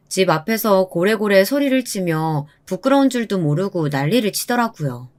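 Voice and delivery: plain reading voice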